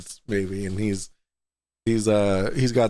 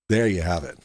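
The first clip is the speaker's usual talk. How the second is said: low voice; 6 semitones lower than usual. Acted. Repeated catchphrase, lower voice.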